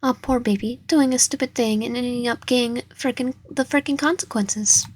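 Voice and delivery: a hint of sugary mocking, lightly voiced; fake sweet mockery. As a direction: coo it with false sympathy, mildly. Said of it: "mocked you in a fake, sweet voice".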